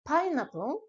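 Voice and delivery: pineapple pronounced the French way; French-style pineapple. Shown as a demonstration. Teacher showing the French reading. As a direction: say pineapple as a French speaker would. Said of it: "prononcé bien à la française".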